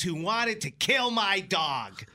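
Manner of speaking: imitating a crazed bar patron; ranting stranger. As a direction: drag out the accusation like a crazed drunk. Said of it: "points to and says".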